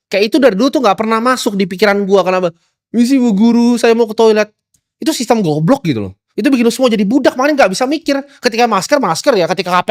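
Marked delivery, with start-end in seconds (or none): 3.0-4.5 high, loud, whiny schoolkid asking the teacher; mock polite pupil. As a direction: ham up the obedient pupil. (murid sok sopan minta izin ke guru)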